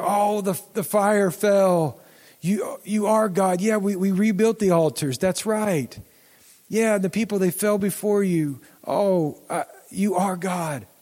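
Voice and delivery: dawning wonder, said slowly; awed realization. Retold or imitated. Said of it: "the story something like".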